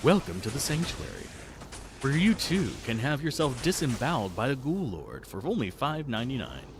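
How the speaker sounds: mock Southern huckster selling a grim bargain; understated Southern twang, mock sales pitch. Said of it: "I should say it in a southern twang".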